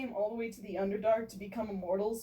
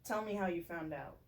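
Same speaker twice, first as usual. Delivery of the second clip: low, hushed threat, much softer; just above a whisper; 7 semitones lower, 10 dB quieter than usual. Acted. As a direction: keep it barely above a whisper with a blade at his throat. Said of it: "Jimjar spoke in just above a whoops, whisper".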